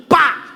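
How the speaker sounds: sharp, high-pitched bang; short spoken hammer strike; imitated whack. Preacher knocks a wedge into the handle, imitated whack.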